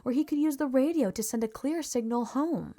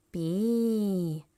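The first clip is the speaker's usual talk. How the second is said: alien creature voice, slow and strange; 4 dB louder than usual. A narrator's reading. Alien repeating the letter after Gertie, strange voice. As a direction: croak the letter like E T. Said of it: "E T said".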